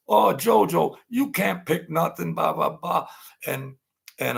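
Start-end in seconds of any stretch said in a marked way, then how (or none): 0.1-3.1 high, mocking imitation of the guy; lightly mocking taunt, pitched up; retold mocking guy. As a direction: needle him in a high teasing voice. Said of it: "the guy says".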